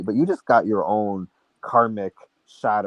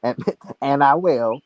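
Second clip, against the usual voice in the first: laughing; 4 semitones higher, 3 dB louder than usual. Real, not acted. Echoes friend's line laughing.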